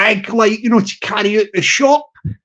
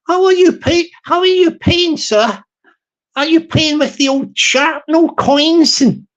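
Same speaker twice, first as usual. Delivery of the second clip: higher fawning shop assistant voice; eager service voice, pitched up; higher shop server; 6 semitones higher than usual. Retold or imitated. Shop server offering to wrap the hat, higher eager voice.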